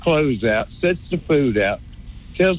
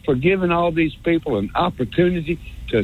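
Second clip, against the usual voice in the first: North Alabama accent. Shown as a demonstration. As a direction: lay on the North Alabama accent, stretching words. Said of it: "I love this North Alabama accent thing".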